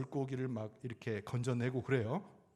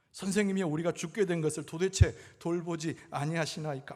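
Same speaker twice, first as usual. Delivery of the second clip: higher, louder acted reproach; imitated resentful complaint; 4 semitones higher, 5 dB louder than usual. Disciples blurting at sleeping Jesus, resentful complaint. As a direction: push the blame, mimicking the disciples. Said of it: "막 원망 섞인 얘기로".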